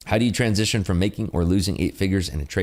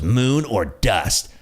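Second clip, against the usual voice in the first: slow, drawn out; imitated friend; much slower than usual. Friend answering the streamer, slow deadpan mock. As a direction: stretch each word like a mantra. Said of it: "He goes".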